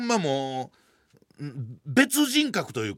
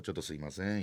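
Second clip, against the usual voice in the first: 「ちょっとすいません」 murmured softer still, quiet and polite; small voice; 10 semitones lower, 9 dB quieter, faster than usual. Retold or imitated. As an adult passing through the boys, quiet polite murmur. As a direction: slip 「ちょっとすいません」 out barely audible. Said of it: "小さい声でよ".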